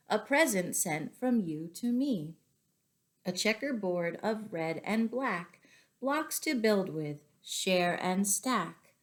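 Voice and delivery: gentle, measured poem reading; story-time poem voice. Acted. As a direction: read it like a picture-book rhyme. Reads poem aloud.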